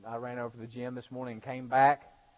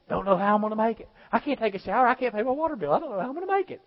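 mock whiny complaining; 9 semitones higher, 7 dB louder, faster than usual. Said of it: "get back in their car".

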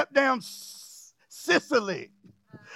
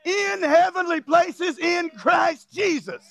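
slow, shouted preaching; preaching at full force; 3 semitones higher, slower than usual. Acted. Preacher shouts to the congregation that God saved them. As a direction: hammer it home like a revival preacher.

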